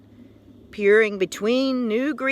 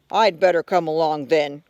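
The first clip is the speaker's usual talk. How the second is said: a gruff, mildly lowered bear voice; growling bear; 3 semitones lower than usual. Acted. Bear joining the hunt, a mild gruff growl. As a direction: rumble it like a big bear. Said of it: "growled the bear".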